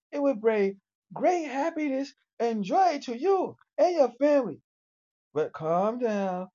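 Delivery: upbeat sales pitch, building high; robot ad read; commercial pitch voice. Acted. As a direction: sell the AI product to families.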